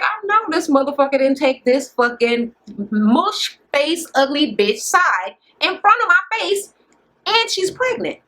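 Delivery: mock outrage. Retelling the angry woman's reaction to the slight, mock outrage. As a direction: retell her disbelief, stretching the insults and climbing.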